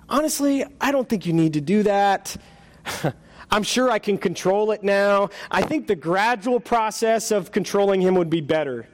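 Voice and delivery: high, fretful ghost voice; nervous ghost voice. Acted. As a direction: play a flustered, embarrassed ghost. Ghost bargains.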